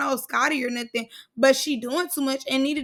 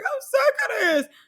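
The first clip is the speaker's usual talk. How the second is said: high cracking mock whine; 11 semitones higher than usual. Scotty near tears in the fight, high cracking whine. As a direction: squeak it out like she's about to cry. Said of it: "You heard her voice crack".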